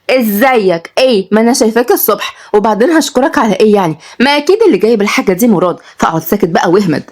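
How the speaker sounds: put-on feisty girl's brush-off, mostly quick; snappy young woman. (بنت لسانها طويل، بنرفزة)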